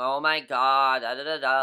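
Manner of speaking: very slow whine, dragging out every word. Mocking how two house guests talk: imitating Liz and Julia's whining voice. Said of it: "they talk like this".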